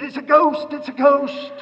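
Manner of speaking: a touch of superstitious fear; mild mock alarm. Disciples seeing someone on the sea, mildly acted alarm.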